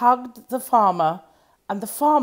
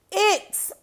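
high, louder cry of wonder; farmer amazed; 11 semitones higher, 5 dB louder than usual. Acted. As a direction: marvel as the turnip rises. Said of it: "said the farmer".

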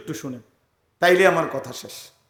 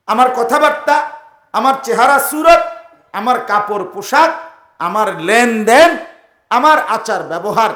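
raised, insistent sermon list; preaching; 4 semitones higher, 5 dB louder than usual. Real, not acted. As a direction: punch each item in a repeating rhythm. Preacher's emphatic repeated list. (জোরালো ওয়াজের ছন্দে)

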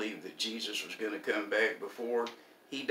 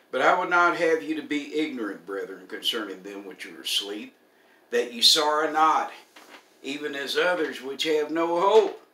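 loud, lifted pulpit reading; scripture reading; 5 semitones higher, 8 dB louder than usual. Acted. Preacher reading Paul on hope for the bereaved, emphatic scripture recital. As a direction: proclaim each phrase of scripture loudly. Resumes reading Paul's letter.

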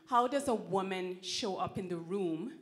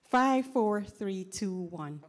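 descending register scale; 6 dB louder, much slower than usual. Shown as a demonstration. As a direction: step the voice down. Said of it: "You wanna try it again?".

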